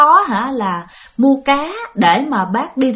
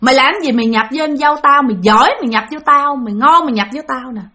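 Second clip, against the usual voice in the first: angry challenge. Retold or imitated. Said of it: "vừa nói rằng á là".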